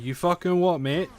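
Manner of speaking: attempted Scottish, slipping toward Essex; a first go at a Scottish hard man; mock Scottish challenge, not quite landing; failed Scottish accent. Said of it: "That's not Scottish".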